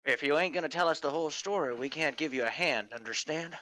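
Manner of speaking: quick, lightly gruff warning; gruff detective fox. Acted. Detective warns a witness withholding the story, lightly gruff. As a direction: lean on the witness, a touch gruff. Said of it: "you're using your gruff voice".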